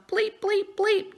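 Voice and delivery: high, drawn-out mock bleeps; spoken censor bleep. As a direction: imitate the censor's tone over each swear word. Spoken censor bleeps replacing swear words.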